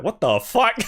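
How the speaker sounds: laughing, still stunned; laughing disbelief. Retold or imitated. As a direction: say it while cracking up. Retold shock repeated.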